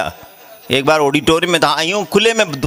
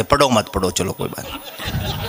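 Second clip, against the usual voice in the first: mock indulgent murmur; 7 semitones lower, 6 dB quieter than usual. Imitates indulgent audience reaction.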